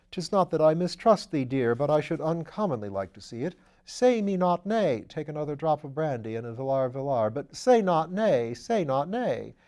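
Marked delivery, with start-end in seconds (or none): 0.1-5.0 a playful mock-Elizabethan lover; mock-romantic plea. Wimsey hams mock-romantic plea. 7.3-9.5 slow, hammed-up pleading refrain; mock-romantic plea.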